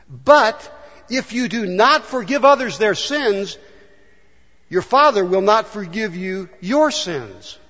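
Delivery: slow, weighty warning; slow down and press each word; preacher stressing a solemn warning; serious. Shown as a demonstration. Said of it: "serious words on this subject".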